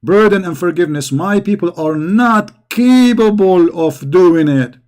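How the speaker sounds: slow, drawn-out pleading quote; quoting Muhammad. Retold or imitated. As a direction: stretch it out like a weary plea. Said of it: "Upon this he said".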